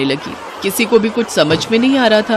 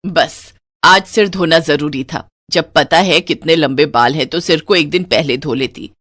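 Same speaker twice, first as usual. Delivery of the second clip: grumbling mother-in-law; 3 semitones lower than usual. Acted. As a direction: complain about modern daughters-in-law.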